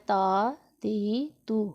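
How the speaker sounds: ता ती तू as three long open syllables, no vowel names; read straight through. Shown as a demonstration. Teacher showing learners how to read the lesson, read straight through. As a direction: say ता ती तू directly, drawing out each vowel. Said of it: "इसको ऐसे नहीं पढ़ना है, इसको पढ़ना है".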